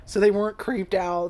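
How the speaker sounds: ordinary talk, nothing marked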